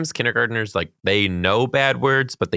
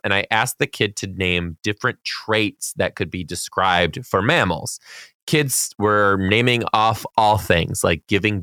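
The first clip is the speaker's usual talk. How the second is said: slow, measured read-aloud voice; reading a letter aloud. A narrator's reading. Podcast host reading a teacher's fan letter, slow read-aloud. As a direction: read it out deliberately, stretching the key words.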